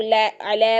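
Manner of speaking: "लै, अलै" with an open ae, no glide into i; "लै, अलै" as a single unturned vowel; common mispronunciation. Shown as a demonstration. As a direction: imitate the common error "alae" in "अलै". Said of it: "बहुत सारे लोग".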